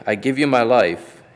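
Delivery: crying out. Acted. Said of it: "Jesus cried".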